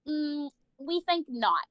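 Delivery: slow, smug drawn-out refusal. Retold or imitated. School officials refusing the mom, slow and smug.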